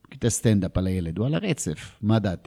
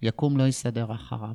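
grumbling wife. Retold or imitated. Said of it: "היא קמה זה כזה".

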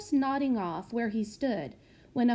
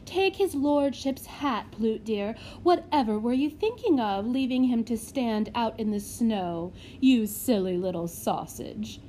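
fawning matron. Acted. Matron fussing over servant.

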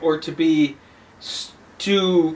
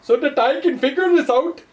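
cowboy charmer; 6 semitones higher than usual. Pretend. Jokey cowboy voice continues.

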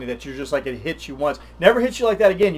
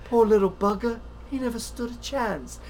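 higher, mock Scottish accent; 8 semitones higher, 4 dB quieter than usual. Retelling the movie scene, mock Scottish accent. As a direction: do the Fat Bastard Scottish brogue. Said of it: "and he's all".

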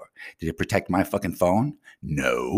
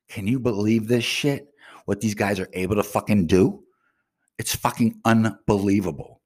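agitated rant, mostly pitched up; beyond upset; 3 semitones higher than usual. Real, not acted. Hacked vlogger asking viewers to believe it, upset and incredulous. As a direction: vent in raised, incredulous disbelief. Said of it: "I am fucking b-, beyond belief upset".

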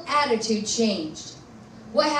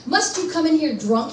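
mild demand; 4 semitones higher than usual. Retold or imitated. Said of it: "he demanded".

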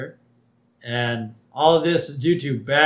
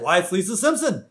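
raised, swooping mock-scandalized voice; Principal Skinner; 6 semitones higher, 6 dB louder than usual. Principal spotting the girl in the lights, hammed-up alarm. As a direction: point her out in loud cartoon dismay. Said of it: "Principal Skinner's there".

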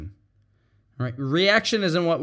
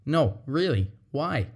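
quiet, gentle really-asking; calm sincere; 3 dB quieter than usual. Shown as a demonstration. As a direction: take the heat out. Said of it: "bring down the tone".

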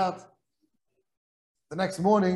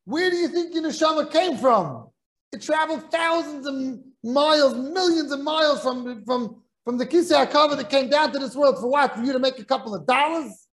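passionate rebuke; 5 semitones higher than usual. Retold or imitated. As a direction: build a fervent sermon-like rebuttal. Rabbi's passionate reply to rich man.

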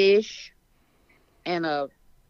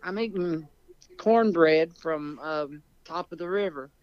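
chewing while talking. Real, not acted. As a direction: mouth full of cornbread. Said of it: "You sound like you're eating peanut butter crackers".

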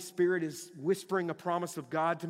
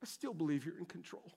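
much higher, straining voice holding on; cling to belief through the struggle, pitched up; sincere strained prayer, higher; struggling faith; 11 semitones higher, 7 dB louder than usual. Shown as a demonstration. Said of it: "Here's where faith comes in".

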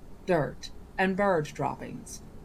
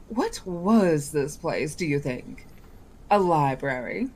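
put-on genie boy voice. Genie chatting idly.

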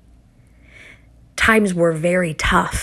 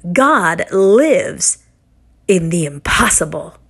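a hint of a small child declaring it firmly; little girl; slower than usual. Mother imitates her toddler daughter's bold declaration, lightly childlike. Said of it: "And she said".

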